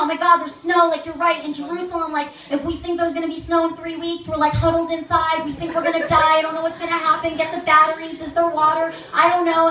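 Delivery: doe alsof je in paniek raakt; mock panic. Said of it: "freaking out".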